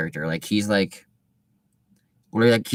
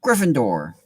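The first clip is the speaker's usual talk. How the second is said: hat shouting; 4 semitones higher, slower than usual. Acted. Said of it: "the hat had shouted".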